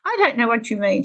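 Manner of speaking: a touch of an angry student, imitated; mock angry. Confused student answers back to her teacher, mildly angry. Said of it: "she got really angry".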